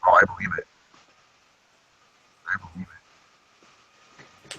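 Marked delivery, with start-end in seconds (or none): 2.5-4.6 slow breathy whisper. Shown as a demonstration. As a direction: whisper it slowly, drawn out. Repeat turned to whisper.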